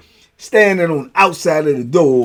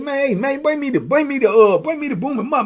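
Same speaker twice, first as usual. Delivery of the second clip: imitating B; 10 semitones higher than usual. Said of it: "B said".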